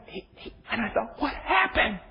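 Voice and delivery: choked up, barely getting it out; tearful break in the voice; crying. Real, not acted. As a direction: voice breaking into tears. Preacher breaks down recalling store.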